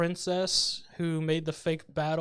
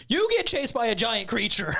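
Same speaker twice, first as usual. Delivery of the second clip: raised, high-pitched pretend scolding; mock yelling; 5 semitones higher, 6 dB louder than usual. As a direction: yell it like a little girl telling someone off. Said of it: "Did the little girl yell at him".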